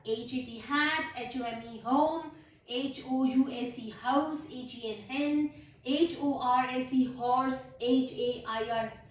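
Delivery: slow recap, letter by letter then the word; spelling out letters. Shown as a demonstration. Teacher reviewing the words so far, slow spelling. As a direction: spell each word out in a steady chant. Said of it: "यहाँ तक मैंने कर लिया था".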